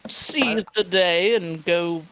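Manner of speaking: slow, drawn-out grand offer; mock grand invitation. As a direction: lay it on like a game-show host, slowly.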